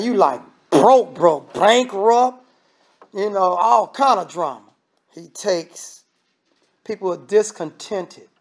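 usual speaking voice

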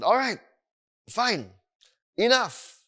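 high, punched one-word outbursts; retold fed-up parent; exasperated parent. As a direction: separate each word like a parent losing patience. Parents fed up with demanding toddler.

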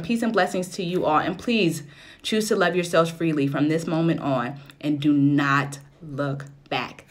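ordinary talk, nothing marked

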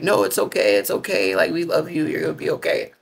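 gently calm a scared person; calming reassurance. Retold or imitated. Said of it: "So they calmed me down".

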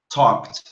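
"talked" in one syllable, tawk-t. Shown as a demonstration. Teacher adds another example, "talked" said tawk-t. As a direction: end "talked" on a T. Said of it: "só pra você saber pronunciar corretamente".

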